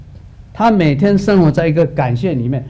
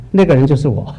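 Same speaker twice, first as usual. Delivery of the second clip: laughing; 5 semitones lower than usual. Real, not acted. Reveals he was the third.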